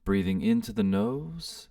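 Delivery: soft, unhurried meditation guide with pauses; guided meditation. Real, not acted. Host guiding listeners to sit and breathe, guided meditation. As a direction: gently lead them into stillness, leaving space between phrases.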